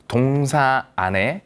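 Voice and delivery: ordinary talk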